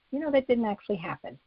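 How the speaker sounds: quick, offhand and easy, no weight on it; breezy throwaway correction; very casual. Shown as a demonstration. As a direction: toss it off like it's nothing. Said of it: "Very casual".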